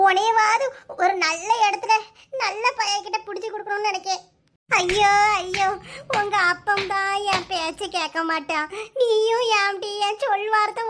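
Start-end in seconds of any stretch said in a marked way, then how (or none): 4.7-5.7 slow drawn-out lament; mother's anguished ayyo; wailing. Acted. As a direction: wail it slowly in despair. Mother wailing over daughter.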